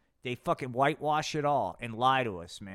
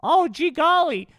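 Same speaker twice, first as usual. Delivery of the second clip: very high, gee-whiz naive voice; meek goody voice; 12 semitones higher, 9 dB louder than usual. Acted. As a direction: sound hurt and innocent. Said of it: "Joe Pesci kinda Seerstone".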